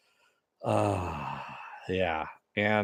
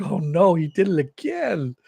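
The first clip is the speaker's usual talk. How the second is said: higher, louder mock dismay; Kevin's dismay; 8 semitones higher, 6 dB louder than usual. Host voicing Kevin dismayed as Tick bites starfish, higher and louder. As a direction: squeal it out in disgust.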